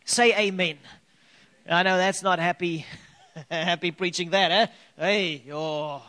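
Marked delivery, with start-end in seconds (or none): 3.2-6.1 chuckling through the words; laughing. Real, not acted. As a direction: laugh it off lightly. Laughs at own hard word.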